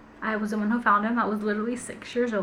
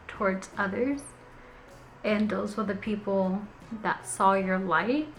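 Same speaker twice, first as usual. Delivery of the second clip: tender; 3 dB quieter, slower than usual. Real, not acted. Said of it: "didn't mean for that to get so emotional".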